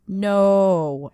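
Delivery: obnoxious, bored drawl; bored teenage drawl. Retold or imitated. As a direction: say no like a bored fourteen-year-old. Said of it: "with an obnoxious drawl like a bored fourteen-year-old".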